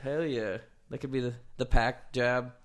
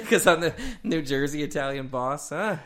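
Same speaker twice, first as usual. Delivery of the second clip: mob boss voice; 2 semitones higher, 5 dB louder than usual. Pretend. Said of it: "something that just came out of Scarface".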